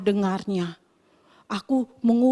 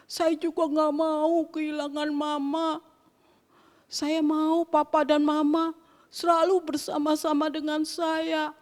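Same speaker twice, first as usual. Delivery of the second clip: put-on a touch of a crying child, slow; child pleading not to lose Papa, lightly tearful. Teacher voicing the sad child to the class, slow and tearful. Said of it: "Anak itu mulai menangis".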